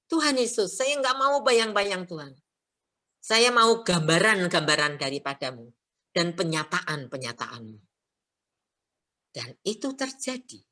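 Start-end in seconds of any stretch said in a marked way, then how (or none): 0.0-7.8 pleading prayer. Retold or imitated. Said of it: "saya bisa berseru kepada Tuhan".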